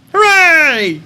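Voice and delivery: high, drawn-out falling cheer; puppet cheer. Pretend. Streamer cheering the odd stream tradition, high puppet hooray.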